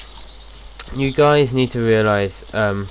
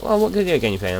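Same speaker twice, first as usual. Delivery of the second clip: imitated girlfriend; 5 semitones higher, faster than usual. Voicing girlfriend's question.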